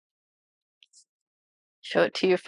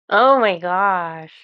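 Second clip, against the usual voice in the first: slow, louder amazed exclamation; awed surprise; 5 dB louder, much slower than usual. Real, not acted. Reader overwhelmed by the card's message, slow amazed exclamation. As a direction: let the awe spill out, drawn-out. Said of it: "Stop it".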